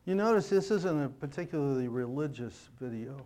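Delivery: slightly hoarse, losing voice; a worn, hoarse voice. Real, not acted. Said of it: "Losing my voice from yesterday".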